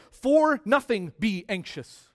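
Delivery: "For nothing" leaned on first, then "be anxious" said slowly; slow the whole line and weight "nothing"; emphatic reordered reading; stress on "For nothing". Shown as a demonstration. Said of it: "placed at the beginning of the sentence for emphasis".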